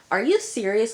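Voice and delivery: put-on hurt girlfriend confronts cheating boyfriend, outraged; upset disbelief. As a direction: demand it in disbelief. Juliet confronting Alex, upset.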